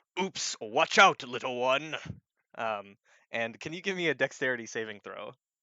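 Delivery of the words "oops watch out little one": loud, rumbling giant voice. Game master voicing a giant to the players: rumbling giant voice. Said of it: "you hear this voice rumble out".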